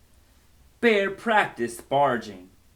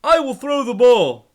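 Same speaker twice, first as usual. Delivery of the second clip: loud high eager voice; snake; 10 semitones higher, 9 dB louder than usual. Acted. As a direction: throw with eager energy. Snake throws the ball.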